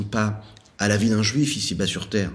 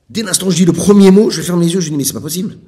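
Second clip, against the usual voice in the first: louder, much higher fervent preaching; impassioned retelling; 8 semitones higher, 9 dB louder than usual. Retold or imitated. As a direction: pour yourself into each question. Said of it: "Il a dit".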